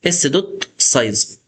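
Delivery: slow, spelling out اس دوت سايز word by word; teacher slowing down on the function name; slow and deliberate. Shown as a demonstration. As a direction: dictate اس دوت سايز slowly so students can copy it. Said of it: "هتحفظها جوه فاريبل تاني".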